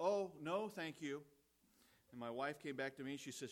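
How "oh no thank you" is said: imitated sweetly polite refusal, higher at the start. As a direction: decline very politely, as an old friend would. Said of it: "very politely, she was so polite".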